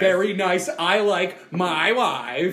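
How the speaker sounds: loud, slow Borat catchphrases; Borat accent. Acted. Friend joining the catchphrases, loud Borat accent. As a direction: draw it out in a mock Borat accent.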